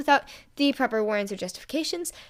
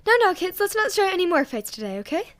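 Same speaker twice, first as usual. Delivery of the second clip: placating; 8 semitones higher, 4 dB louder than usual. A narrator's reading. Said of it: "Inko made a placating gesture".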